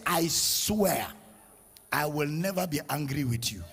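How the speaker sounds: low, hushed vow; solemn oath. Acted. God swears to the believer, solemn quiet oath.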